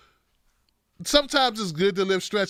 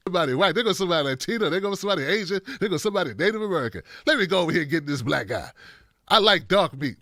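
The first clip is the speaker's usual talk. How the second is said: quick, slightly lowered mock virus mutter; lightly voiced virus; 4 semitones lower, faster than usual. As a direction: pick out victims like a picky virus, lightly acted. Acting out the disease choosing victims.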